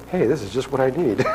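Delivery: laughing, half-shouted delight; gleeful inner voice. Retold or imitated. His inner voice delighting in the gift, laughing. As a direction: gloat with a laugh. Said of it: "my little mind is going".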